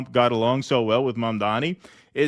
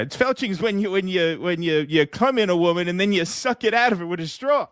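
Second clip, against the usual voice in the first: higher, bragging Trump-style rambling; Donald Trump voice; 5 semitones higher than usual. Acted. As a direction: play Trump chatting up a guest, pleased with himself. Trump voice explains felching.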